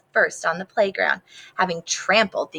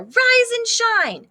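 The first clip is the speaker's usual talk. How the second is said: high, slow rise and shine; singsong wake-up call; 14 semitones higher, 3 dB louder, slower than usual. Acted. Capybara calling to a leaf, high and drawn out. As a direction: sing it out to wake them.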